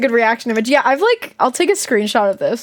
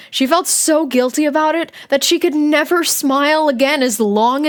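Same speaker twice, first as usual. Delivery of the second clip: lively first-person story reading; diary read-aloud; 2 semitones higher than usual. Acted. Streamer reading a kid's diary aloud, animated narration. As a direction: read it like a dramatic schoolgirl's diary.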